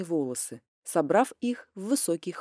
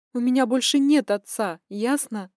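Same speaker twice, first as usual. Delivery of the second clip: tragic heroine sorrow; 4 semitones higher, 4 dB louder than usual. Acted. Daughter's bitter declaration.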